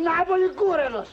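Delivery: high, insistent pidgin-Italian jab; hammed-up football squabble; mock Italian quarrel. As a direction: needle the Italian in broken Italian.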